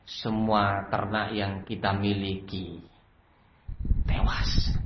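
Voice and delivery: slow, low, halting servant reporting a loss; hushed, reluctant confession; meek bad-news report. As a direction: break the bad news timidly, fading to a near-whisper.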